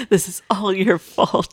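slow mock accusation; Avery, mad. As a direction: imitate an indignant small child, drawn out. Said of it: "she was so mad".

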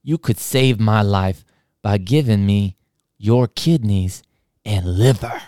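slow, pushy hazy voice; slow stoner pitch. Retold or imitated. Stranger bargaining with school worker, slow pushy drawl. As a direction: talk him into it, slowly. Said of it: "And he goes".

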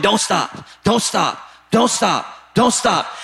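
easy, steady urging; encouraging. Acted. Apostle urging the church to keep going, easy. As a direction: keep them going gently. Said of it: "Before that, he's going".

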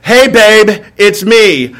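easy call home, lightly voiced; phone call to wife. Husband phoning wife about guests, lightly voiced casual greeting. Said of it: "this is how this call sounds".

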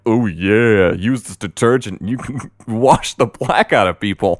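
lightly voiced ad announcer, half laughing; mock ad pitch. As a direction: parody the ad's cheerful slogan. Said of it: "it kinda turns into this whole".

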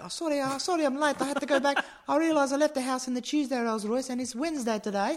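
high, loud airy voice of a tycoon; high posh rich man. Pretend. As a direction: breeze in late in a high, loud voice. Playing Con arriving late.

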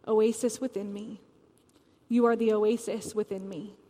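measured reading with long pauses between lines; poem reading. Acted. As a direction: read each line like a prayer, letting it settle. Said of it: "I'm gonna read these words that Callie wrote one more time".

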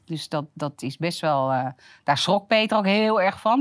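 ordinary talk, nothing marked

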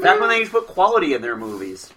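deadpan mock praise; sarcastic. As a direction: fake sincere, fast. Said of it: "can't say that with a straight face".

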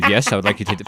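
lightly voiced proper examiner; a hint of a prim examiner, polite and even; prim examiner, no accent. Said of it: "not even having an accent".

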